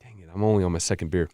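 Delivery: talking right after a burp; a burp caught in the throat. Real, not acted. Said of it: "Burp number three".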